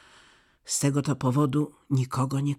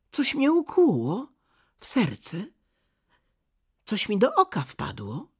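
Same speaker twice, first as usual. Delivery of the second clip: higher, a touch pained and startled; startled boy in pain; 9 semitones higher, 4 dB louder than usual. A narrator's reading. Kai telling Gerda something stung him, pained. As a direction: say it like a boy who just felt a sting. Kai pricked by the mirror splinter.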